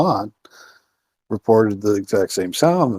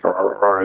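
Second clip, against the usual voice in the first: imitating creature rah calls. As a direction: chant rah rah rah like the woods voice. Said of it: "doing an imitation of it".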